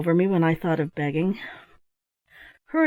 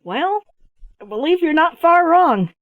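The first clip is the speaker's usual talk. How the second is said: laughing; 9 semitones higher, 8 dB louder than usual. Acted. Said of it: "I burst into a fit of laughter".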